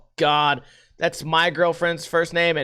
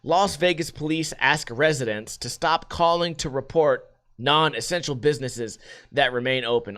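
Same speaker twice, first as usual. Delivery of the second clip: usual speaking voice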